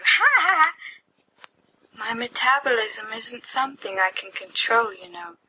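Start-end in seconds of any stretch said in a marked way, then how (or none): 0.0-0.7 giggling laugh. Acted. Laughing at the joke.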